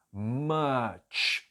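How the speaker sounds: "much" drawn out with a distinct final "tch"; careful pronunciation. Shown as a demonstration. Teacher shows the T sound in "much", stretched. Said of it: "tem um som de T".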